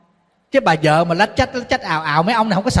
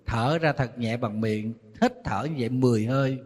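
calm breathing guidance; 4 semitones lower, 5 dB quieter than usual. Retold or imitated. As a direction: talk her down gently, like a breathing coach. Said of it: "Thầy nói".

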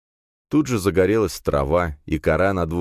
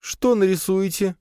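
higher, slow scared question; frightened question. A narrator's reading. Pale captive asks what they'll draw, afraid. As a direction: ask in dread.

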